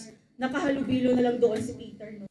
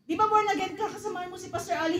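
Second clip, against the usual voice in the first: high, quick needling voice; pressing question; 6 semitones higher, faster than usual. Acted. Friend pressing the suitor about being born again, high quick voice. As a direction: press him, pitched up and fast.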